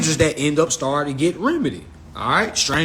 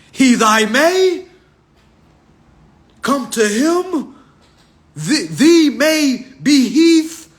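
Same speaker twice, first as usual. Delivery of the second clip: mock Bible verse; 2 semitones higher, 3 dB louder, slower than usual. Fake Bible verse recitation.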